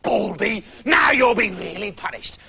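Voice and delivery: mock the bald girl with glee; the witch taunts Rapunzel; gloating angry witch. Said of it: "wild with anger".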